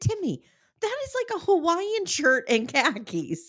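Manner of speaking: very high, swooping, disbelieving, incredulous sing-song. Retelling own reply to a complaint about a shirt: retelling own incredulous reply. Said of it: "I said".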